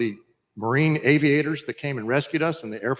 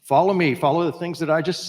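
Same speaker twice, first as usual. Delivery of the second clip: loud, higher command; commanding call; 4 semitones higher, 3 dB louder than usual. Real, not acted. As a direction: call it out to the crowd. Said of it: "That makes it pretty clear".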